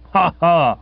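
lightly voiced aunt's "ha, ha"; answering mock guffaw. A narrator's reading. Aunt backing up her nephew with another guffaw, mock cheery. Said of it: "Aunt Dahlia came across with another".

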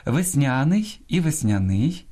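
весняний stressed first on НЯ, then on НИЙ; весняний shown with middle, then last syllable stressed; double stress. Shown as a demonstration. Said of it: "двояке наголошування нормативне".

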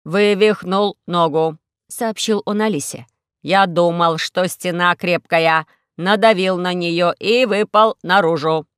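slow, loud, heavy robot voice; complaining injured robot, slow and loud. Acted.

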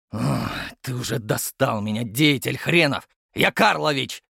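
fed-up grumble building to a shout; captain correcting his patronymic, fed up; exasperated shout. Acted. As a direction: lose patience with the brat. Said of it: "выкрикнул Гав".

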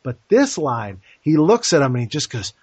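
ordinary delivery

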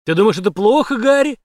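громко, выше, насмешливый подъём; издевается над жертвой; насмешка. A narrator's reading. Издевательский вопрос под пистолетом. (злая насмешка)

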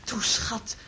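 soft coaxing whisper; hushed, coaxing whisper. Acted. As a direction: breathe it to him gently. Coaxing him, hallucination scene.

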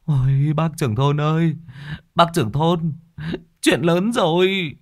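high, out-of-breath cry, slowing at the end; panting. Acted. Hoan bursts in to the village head, high breathless panting. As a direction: gasp it out after running. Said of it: "thở hồng hộc".

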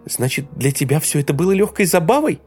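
high, rising, tearful yelling; a hurt woman shouting at her lover. A narrator's reading. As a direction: scream it through her tears. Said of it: "Теперь она кричала".

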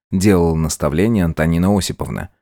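ordinary delivery, nothing marked

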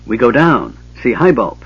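a hint of puffed-up pride; self-important. Bupu telling the gully dwarves where she goes, lightly self-important. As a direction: announce it like she's in charge. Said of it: "Bupu said importantly".

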